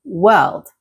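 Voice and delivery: world with R gliding straight into L; R and L together. Shown as a demonstration. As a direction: say world clearly, R and L joined. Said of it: "pronounce the R and the L together".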